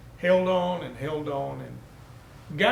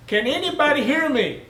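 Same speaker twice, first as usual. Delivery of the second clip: loud, high, desperate cry; screaming again; 10 semitones higher, 10 dB louder than usual. Acted. Stranded man screams again for anyone to hear, pleading. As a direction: shout it up the cliff, pleading. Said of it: "he started screaming again".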